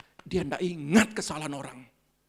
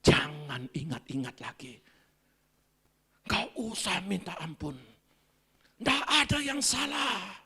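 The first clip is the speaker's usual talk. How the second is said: tender comfort; slower than usual. Retold or imitated. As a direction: comfort someone in your arms. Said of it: "Saya peluk dia".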